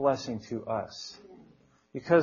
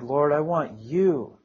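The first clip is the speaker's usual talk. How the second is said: lower, earnest prayer with a weighted "you"; heartfelt prayer; 4 semitones lower than usual. Retold or imitated. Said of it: "I was touched and I prayed".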